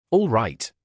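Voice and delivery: lightly voiced gruff bogeyman; a hint of a gruff voice from the chimney; gruff monster voice. A narrator's reading. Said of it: "a most terrible gruff voice".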